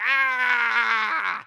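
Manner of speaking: high shouted gasp; mock startled yelp; startled yell. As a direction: jump back in shock. Walks in on two dudes.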